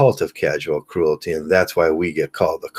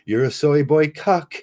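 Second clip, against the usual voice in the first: much higher, sneering troll voice; mock online troll taunt; 8 semitones higher than usual. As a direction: jeer like an internet troll.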